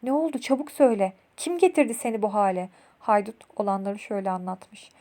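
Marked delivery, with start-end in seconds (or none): 0.0-2.7 mildly urgent acted questions; a touch of anxious curiosity; curious, urgent questioning. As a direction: press for news with quick curiosity. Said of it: "merakla sormuşlar".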